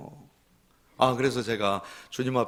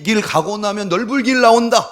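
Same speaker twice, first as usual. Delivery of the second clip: proclaimed louder, punching 나온다 with falling force; loud preaching; 7 semitones higher, 10 dB louder than usual. Acted. Pastor rebuking a worldly saying before the congregation, loud. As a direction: throw 나온다 out to the whole hall.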